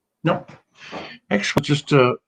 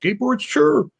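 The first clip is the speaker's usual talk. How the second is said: voicing Lindsay; 10 semitones higher than usual. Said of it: "She said".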